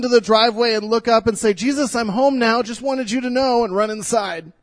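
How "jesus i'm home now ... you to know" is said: put-on higher and louder, a child's cheerful announcement; a hint of an excited little girl running home; lightly voiced little girl. Little daughter greets nativity scene.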